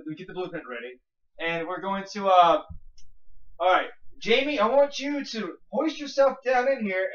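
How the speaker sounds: lightly voiced TV show host; a hint of an eager science show host explaining the plan; Mythbusters host. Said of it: "So now at Mythbusters".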